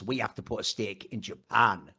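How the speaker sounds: low, grave movie threat; ominous villain line. Pretend. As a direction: growl it like a film villain. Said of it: "And then he goes".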